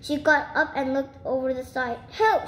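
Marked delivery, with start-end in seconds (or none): 2.1-2.5 high-pitched cry for help; storybook cry of alarm. A narrator's reading. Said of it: "she cried".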